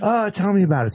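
high, eager imitation; amazed interest. Cyclist asking a stranger about the ride, amazed. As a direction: imitate someone astonished and wanting the whole story.

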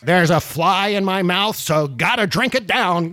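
mocking Ted Cruz. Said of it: "Ted Cruz goes".

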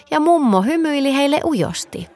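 ordinary delivery

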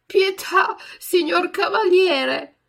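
high, loud, slow plea; pleading. A narrator's reading. Pinocchio begs the puppeteer again, pleading. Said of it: "con voce supplichevole".

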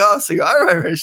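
high Irish lilt, imitating a woman; imitated Irish accent. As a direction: raise the pitch into a mock Irish accent. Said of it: "and she had the accent".

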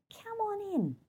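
soft, high, tender invitation; welcoming. Pretend. Inviting the inner voice in, soft and high. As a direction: gently open the door to her inner critic.

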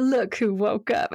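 slow, fond coo; delighted mother's greeting. Retold or imitated. Mom who was waiting for you to get up, delighted. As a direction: stretch it out lovingly. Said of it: "like she was so excited".

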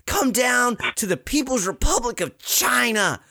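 high, slow, hammed-up Chinese accent; slow mock Chinese accent ending in a shout of Team China. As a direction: play up a cartoonish Chinese accent, proud and boastful. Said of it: "the traditional Eileen Gu Chinese".

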